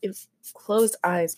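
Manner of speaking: hushed whisper. Real, not acted. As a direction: whisper it under your breath. Whispered aside about picking.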